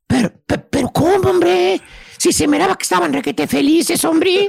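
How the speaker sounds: stammering feigned disbelief; exaggerated incredulous protest; mock surprise. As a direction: play the astonished friend, stumbling at the start. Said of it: "tú pones cara de sorprendido".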